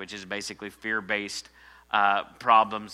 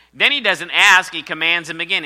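much higher and louder, fired up; preaching shout; 8 semitones higher, 11 dB louder than usual. Acted. Pastor building up to the verse, fervent loud preaching. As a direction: rise to a fervent cry.

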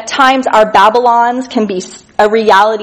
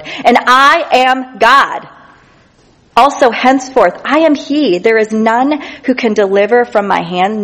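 preacher voicing the Lord's declaration; scripture proclamation. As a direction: declare it with authority. Reads God's words from Isaiah.

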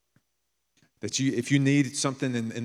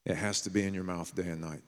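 quiet, lower repeat of the line; softer echo; 3 semitones lower, 6 dB quieter, faster than usual. Real, not acted. Preacher quietly repeating God's command to Joshua for emphasis. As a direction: let it sink in, said softly.

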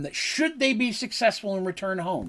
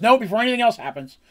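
insistent; 5 semitones higher, 4 dB louder than usual. Retold or imitated. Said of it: "She goes".

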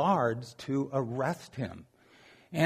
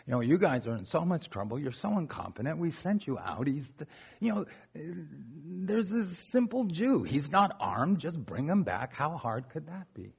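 berating. Retold or imitated. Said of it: "So they start berating them".

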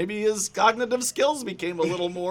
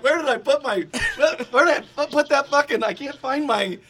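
flustered; 5 semitones higher than usual. Retold or imitated. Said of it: "looking like".

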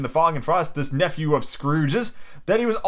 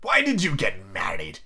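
lowered miser voice; Scrooge, disapproving; 4 semitones lower than usual. Acted. Scrooge questioning his nephew's marriage, low disapproval. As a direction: ask it low and scornful.

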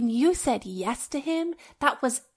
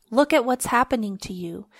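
whispered words, no voice behind them; 4 dB louder than usual. Acted. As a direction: breathe it out as a whisper. Reading God's words in scripture.

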